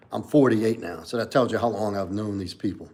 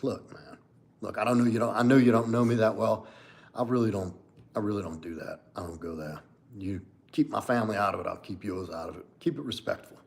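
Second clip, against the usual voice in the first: cool, collected assertiveness. Acted. Demonstrating assertiveness to someone overstepping, cool and collected. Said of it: "really cool and collected".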